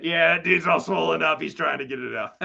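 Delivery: laughing through an imitated reaction; imagined amused teacher. Storyteller voicing the teacher who saw his swollen cheeks, amused. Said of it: "saw my cheeks and went".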